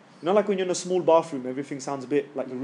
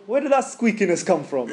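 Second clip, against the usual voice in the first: squeaky voice; 5 semitones higher than usual. Retold or imitated. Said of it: "you get squeaky".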